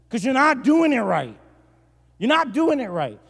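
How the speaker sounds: high, loud, scandalized rant; mock outrage. Pastor appalled at a bitten Kit Kat, mock outrage. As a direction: wail it in comic disbelief.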